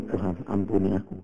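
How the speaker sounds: soft, contrite plea; hushed repentant line; murmured prayer. Retold or imitated. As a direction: say it under your breath to God.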